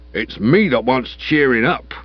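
slow, glum grumble; a gloomy constable feeling sorry for himself; morose. Acted. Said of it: "he said morosely".

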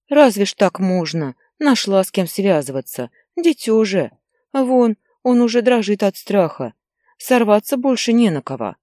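a grandmother telling off the mother; scolding grandmother. Acted. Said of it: "говорила бабушка". (бабушка громко и возмущённо стыдит мать)

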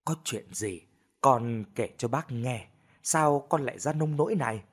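soothing calm. Acted. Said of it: "trấn tĩnh".

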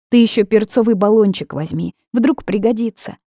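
put-on a girl reminding her mother, eager; daughter's prompting. A narrator's reading. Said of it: "подсказала дочь".

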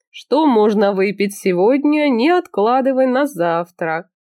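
put-on slow, slurring drunk voice. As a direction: talk like you've had too much wine. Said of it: "совершенно пьяным голосом".

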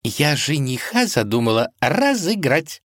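plain reading voice

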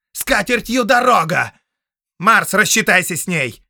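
loud, high scornful shout; angry dismissal. Acted. Count dismissing the sorceress, loud scorn. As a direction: wave her away.

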